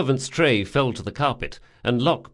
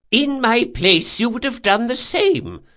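put-on high, loud old man's protest; pleading old man; 12 semitones higher, 6 dB louder than usual. Old man justifies himself to intruder, high pleading voice.

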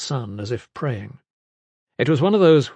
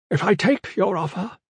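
put-on higher-pitched old woman's voice; grandmother; 7 semitones higher than usual. A narrator's reading. Grandmother answers Gavin's offer of peace, in a high voice. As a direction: voice a worried grandmother. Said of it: "one grandmother said".

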